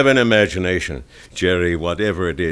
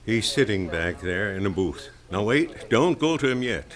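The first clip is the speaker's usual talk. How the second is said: much softer, keeping it from Jerry; hushed confiding; 7 dB quieter than usual. Acted. Paddy telling Marge secretly.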